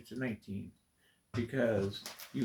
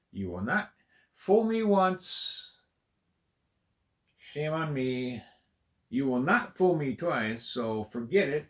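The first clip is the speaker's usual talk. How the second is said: defiant mock vow; 2 semitones higher, 5 dB louder than usual. Real, not acted.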